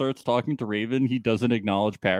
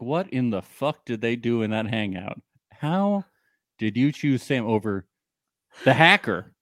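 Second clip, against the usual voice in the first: mock outrage. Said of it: "He's furious".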